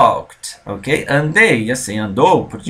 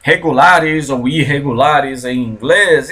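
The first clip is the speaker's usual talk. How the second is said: student's complaint; slower than usual. Retold or imitated. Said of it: "Eu sempre escuto assim".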